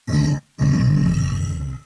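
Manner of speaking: loud gruff throat clearing. Acted. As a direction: clear the throat before speaking. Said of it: "The voice clears its throat".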